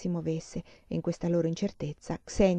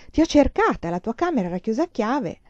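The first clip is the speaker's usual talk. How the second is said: higher, louder reproach to a missing friend; agitated, raised voice; urgent questioning; 4 semitones higher, 4 dB louder than usual. Acted. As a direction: press her urgently for an explanation. Worried friend confronts missing girl.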